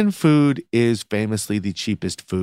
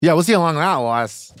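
loud sharp voice, pitched up; 5 semitones higher, faster than usual. Shown as a demonstration. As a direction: shout it at her. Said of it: "why are you yelling".

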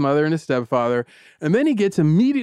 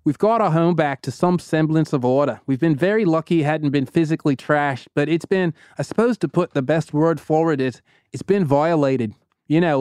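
Irish-Australian accent, lightly put on. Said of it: "He's, like, Australian Irish right now".

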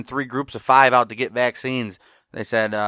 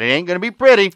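higher, louder quoted warning; grim warning; 8 semitones higher, 7 dB louder, faster than usual. Retold or imitated. One friend retelling a show's scene, grim warning. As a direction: deliver a retold warning with force.

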